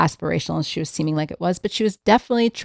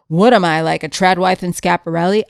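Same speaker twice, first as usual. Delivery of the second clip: mock bass voice; 5 dB louder than usual. Mocking the influencer's podcast denial, mock bass voice. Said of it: "with your bass voice and be like".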